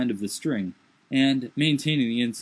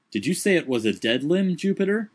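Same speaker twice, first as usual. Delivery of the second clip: quavering voice; 5 semitones higher than usual. Acted. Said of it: "cried Legrand in a quavering voice".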